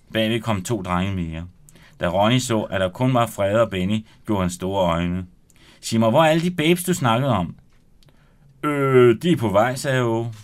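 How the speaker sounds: lively read-aloud narration with voiced characters; story narration. Author reading his novel aloud on radio, animated. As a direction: read the chapter to the studio audience with energy.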